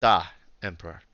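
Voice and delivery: lightly put-on Russian accent. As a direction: answer as a dutiful Russian subordinate. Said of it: "she's got a thick Russian accent".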